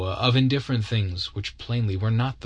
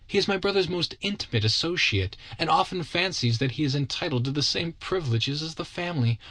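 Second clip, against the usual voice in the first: a touch of tearful strain, higher; almost weeping; 6 semitones higher than usual. Acted. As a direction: plead close to tears. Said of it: "She was almost weeping".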